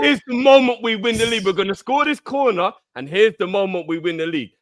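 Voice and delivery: hyped-up retelling. Retold or imitated. Fan mimics his own pre-corner hype to co-hosts. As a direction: relive the pre-corner excitement. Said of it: "I was saying".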